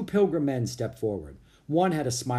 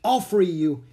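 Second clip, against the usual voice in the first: eager; 6 semitones higher, 6 dB louder than usual. A narrator's reading. Annie rushing to help.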